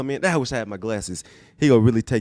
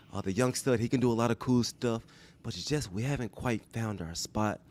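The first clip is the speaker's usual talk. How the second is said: Pete Carroll impression. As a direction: play the calm coach giving an exit talk. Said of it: "I'm trying to mimic Pete Boyce 'cause he's gonna have a sincere".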